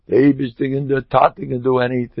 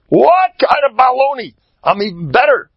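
scoffing self-talk; 13 semitones higher, 4 dB louder than usual. Pretend. Mocking his own self-doubt.

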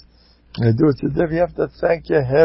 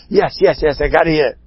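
quick, slightly raised insistence; eager assent; 3 semitones higher than usual. Acted. Curious husband answering the Rav, eagerly insistent. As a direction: jump in, impatient to hear. Husband dying to hear the secret.

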